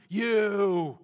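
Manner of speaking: the crowd shouting at Moses in anger; accusing shout. Retold or imitated. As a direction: jab the finger at Moses. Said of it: "they grumbled against Moses".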